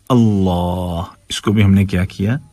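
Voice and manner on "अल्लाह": "अल्लाह" slow, with thick, rounded laa; full-mouthed "अल्लाह"; heavy lam. Shown as a demonstration. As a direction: recite "अल्लाह" drawn out, dark L. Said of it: "मोटा करके पढ़ा है".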